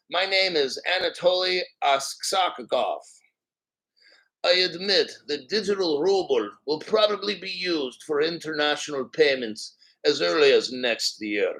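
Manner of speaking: lightly put-on Russian accent. Shown as a demonstration. Playing Aksakov admitting the digital ruble plan, Russian accent. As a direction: read it as a Russian official, accent on. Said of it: "gonna go into full character here".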